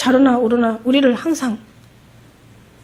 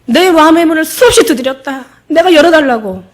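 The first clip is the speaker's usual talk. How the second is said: higher, louder preaching cry; loud, higher fervent preacher's cry; impassioned cry; 5 semitones higher, 6 dB louder than usual. Acted. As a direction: proclaim it with full force. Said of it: "preacher's impassioned repeat".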